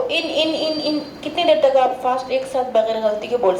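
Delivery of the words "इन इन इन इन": quick in in in drill; fast repetition. Shown as a demonstration. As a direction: say it quickly, no pause. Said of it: "इन को भी fast बोलना है". (तेज़ी से बोलना)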